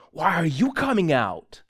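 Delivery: slow, indignant imitated question; retold challenge. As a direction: throw out a suspicious challenge, imitating him. Retelling hostile challenge to pastor.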